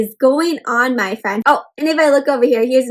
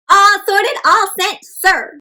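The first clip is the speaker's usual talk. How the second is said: penguin answering; 7 semitones higher, 4 dB louder, slower than usual. A narrator's reading. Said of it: "said his right-handed penguin".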